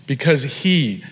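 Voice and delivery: HE held and leaned on; emphatic HE at the phrase end; stress on HE. Shown as a demonstration. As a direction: make "he" the key word, drawn out. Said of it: "The he is emphatic".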